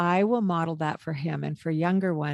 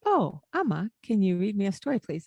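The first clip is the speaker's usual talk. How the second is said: polite request; 2 semitones higher than usual. Retold or imitated. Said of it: "he will say".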